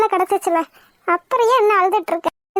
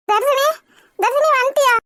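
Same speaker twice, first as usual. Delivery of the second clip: anxious relief; 5 semitones higher than usual. Acted. Relative greets the rescued girl.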